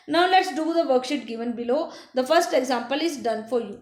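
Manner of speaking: put-on slow, deliberate English for young learners; slow teacher read. Teacher reading the worksheet line to children, slow and clear. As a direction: read the line slowly to the class.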